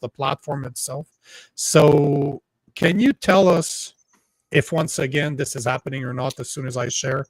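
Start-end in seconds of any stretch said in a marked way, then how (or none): 1.5-7.2 speech through a crackling, distorted mic. Real, not acted. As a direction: sound like a clipping, crackly microphone. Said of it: "your mic is crackling".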